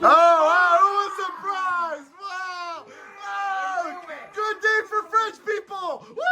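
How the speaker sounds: mock-cheer at the top of your voice; sarcastic wow. Real, not acted. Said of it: "screaming at the French people".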